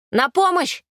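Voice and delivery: very high panicked shout; scream for help. A narrator's reading. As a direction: shriek for help at full voice. Мальчик зовёт на помощь. (крик о помощи в панике)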